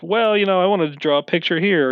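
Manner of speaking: high, whiny mock player voice; dawdling player. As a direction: lightly mimic a distracted player.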